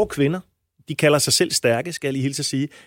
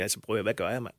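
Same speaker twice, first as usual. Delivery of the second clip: quiet bewildered thought; 7 semitones lower, 10 dB quieter than usual. Retold or imitated. Retold inner thought to friends.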